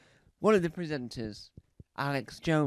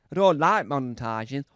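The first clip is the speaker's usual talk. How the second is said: a lightly put-on louder presenter voice; different voice; 6 dB louder than usual. A hint of veteran presenter, louder declaration. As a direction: say it like a seasoned TV host. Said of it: "I'm just trying to do a different voice".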